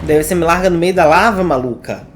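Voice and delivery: outraged complaint. Real, not acted. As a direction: call it out, indignant. Streamer protests the character dropped him.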